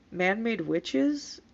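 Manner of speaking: slow, drawn-out incredulous question; reading in disbelief. Real, not acted. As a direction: drag it out, can't believe it. Repeats comment phrase mockingly.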